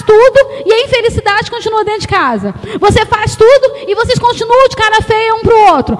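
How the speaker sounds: loud, high, rising exhortation; fiery pulpit rebuke of stubborn wives; preaching at full force. Acted. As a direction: build the sermon to a climax. Preaching builds.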